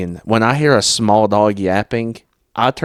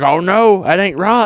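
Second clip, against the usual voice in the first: retold whiny owner; 10 semitones higher than usual. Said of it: "he's like".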